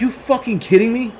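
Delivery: can't believe his eyes; incredulous. Retold or imitated. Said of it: "I'm like".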